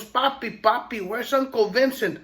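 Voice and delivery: put-on a small boy tugging at his father; child voice. Little boy asks his papa about his uncle, eager and high.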